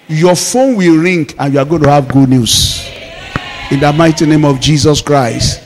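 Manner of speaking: shouted blessing over the church; preaching shout. Real, not acted. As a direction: declare it over the congregation.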